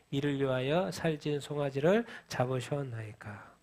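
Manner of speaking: reading scripture aloud with the congregation; measured, even recitation of the verse. Acted. Congregation reads scripture together.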